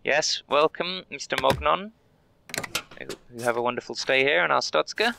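high, sing-song customer-service voice; cheery border clerk. Acted. Guard welcoming a traveller, high and chirpy. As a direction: greet each traveller like a chirpy official.

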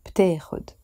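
بتاخد clipped fast as "ptexud"; بتاخد squeezed into one quick word; said quickly. Shown as a demonstration. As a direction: run بتاخد together quickly. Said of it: "pronounced quickly as".

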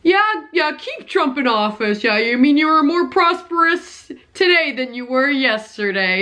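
mock-agreeing, lightly sarcastic imitation. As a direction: play along with dry, feigned agreement. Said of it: "how sarcastic he was being".

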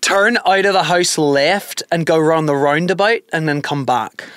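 slow Irish accent demo. Shown as a demonstration. Host setting an accent test for partner, Irish accent. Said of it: "it was Irish".

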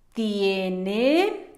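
drawn-out word with a rising end; slow dictation. Shown as a demonstration. Teacher dictates as pupils start to write, slow dictation. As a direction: stretch it while they write, ending upward.

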